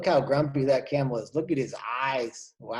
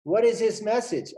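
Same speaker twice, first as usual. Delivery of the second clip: higher, eager question; curious dolphin; 7 semitones higher, 3 dB louder than usual. Acted. Dolphin asking blackbird for the message, high.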